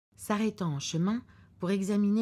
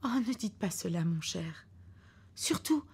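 anxious wife; 3 semitones higher than usual. Acted. Wife in the car begging her husband, lightly fretful. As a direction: beg him not to jinx it.

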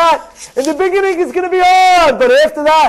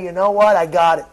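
quiet realization; 7 semitones lower than usual. Acted. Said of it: "think down and say".

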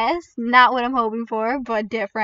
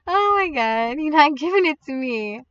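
whiny protest; 5 semitones higher, 3 dB louder than usual. Pretend. Whining that game withholds the Godly.

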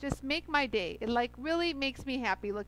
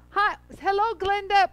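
higher, louder bright hello; excited greeting; 6 semitones higher, 7 dB louder than usual. Real, not acted. Greeting viewers on live stream.

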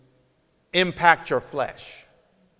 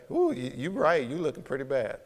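mock agreement; 5 dB quieter than usual. Imitating congregant agreeing.

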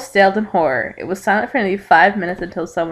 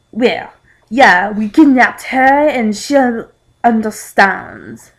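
slow, louder mock French accent; hammy French accent with sarcasm; sarcastic French accent; 3 semitones higher, 6 dB louder, much slower than usual. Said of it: "a French man said sarcastically".

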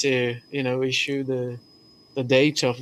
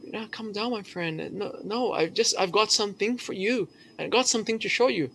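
much softer, hushed reassurance; calming softly; 7 semitones higher, 7 dB quieter than usual. Retold or imitated. Disguised governor quietly calms the angry prisoner, hushed.

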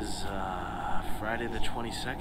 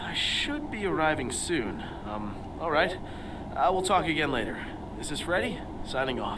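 overacted anime dub; 4 semitones higher than usual. Dubbing the game character Freddy.

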